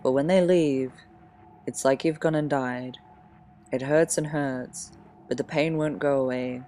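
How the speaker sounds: measured poem reading with long pauses. Acted. Sharing own teenage poems with listeners, poem reading. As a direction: read it line by line, letting each phrase rest.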